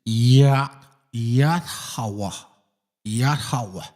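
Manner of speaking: "Yahweh" said as yat-ha-wa; demonstrated pronunciation. Shown as a demonstration. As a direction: sound out "Yahweh" as yat-ha-wa, the last syllable open. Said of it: "the pronunciation is".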